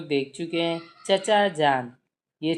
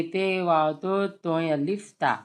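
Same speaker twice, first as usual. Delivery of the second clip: slow spelling out; slower than usual. Shown as a demonstration. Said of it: "तोता कैसे लिखेंगे?".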